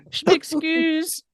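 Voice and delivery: French apology. Acted. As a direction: say sorry in French, slowly. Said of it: "apologize in French".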